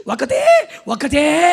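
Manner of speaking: high, rising pampering coo; mock doting parent. Parent spoiling an only child, imitated high doting call. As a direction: draw it out, fussing over an only child. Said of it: "అని గారాబం".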